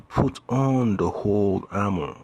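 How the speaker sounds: "whole" given emphatic weight in a verse reading; stress on whole. Shown as a demonstration. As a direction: lean firmly on the word "whole". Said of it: "More emphasis on that word".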